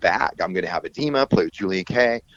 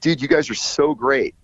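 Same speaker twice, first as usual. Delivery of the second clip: higher-pitched gushing approval, lightly acted; imitated enthusiasm; 6 semitones higher than usual. Bandmate praising the guys on tour, imitated enthusiasm. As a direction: retell it as upbeat praise.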